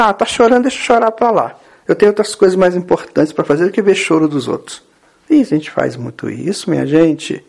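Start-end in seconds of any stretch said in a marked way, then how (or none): 0.0-4.8 dismissive brush-off. Acted. People walking away from someone crying, mock indifference. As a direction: brush them off, quickening toward the end. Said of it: "a gente fala assim".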